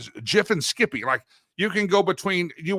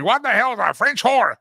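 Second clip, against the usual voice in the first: higher-pitched mock bewilderment; baffled outburst; 7 semitones higher, 3 dB louder than usual. Co-host acting out Delilah's confusion, mock baffled outburst. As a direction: imitate someone loudly baffled by a phrase.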